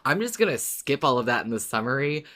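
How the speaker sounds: quoting herself deciding to skip it all; self-quote. Retold or imitated. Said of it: "so I was like".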